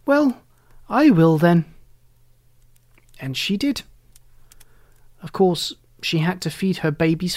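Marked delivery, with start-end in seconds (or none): 0.0-1.6 discouraged. A narrator's reading. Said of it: "rather discouraged".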